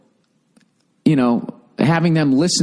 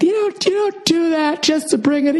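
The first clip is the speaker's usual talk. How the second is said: high, put-on whiny voice; squeaky mocking impression of a gripe; mock whiny complaint; 13 semitones higher than usual.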